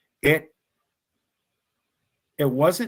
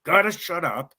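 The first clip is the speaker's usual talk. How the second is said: retold shouting; 6 semitones higher than usual. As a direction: shout down the panicking friend. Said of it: "we start screaming".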